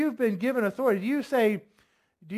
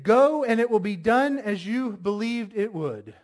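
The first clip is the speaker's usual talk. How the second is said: firm, mildly emphatic order; lightly voiced authoritative Jesus; unhesitating command; 2 semitones higher, 4 dB louder than usual. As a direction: declare it without hesitation. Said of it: "Doesn't sound like any hesitation".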